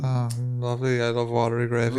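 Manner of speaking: quiet, polite mock approval; feigned politeness. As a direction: pretend to love it, softly. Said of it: "so you just go".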